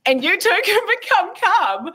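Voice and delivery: high, bright wellness-app pitch, laughing; salesy ad voice. Retold or imitated. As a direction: sell it like a cheesy app ad.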